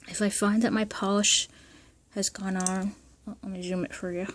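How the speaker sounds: talking around a brush held in the teeth. Real, not acted. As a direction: speak with a brush clamped between the teeth. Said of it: "I'm holding a brush in my teeth".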